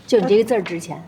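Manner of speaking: a half-whispered flattering aside. Acted. Employee flatters her boss while handing over the contract, whispering. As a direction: lean in and breathe it as a little compliment.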